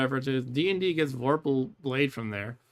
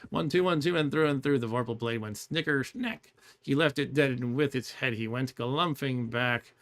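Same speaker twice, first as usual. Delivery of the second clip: poem recitation. Acted.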